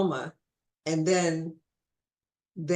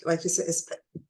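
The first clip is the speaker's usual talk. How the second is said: hiccup cuts the word; stopped short by a hiccup. Real, not acted. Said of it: "I have to drink some water".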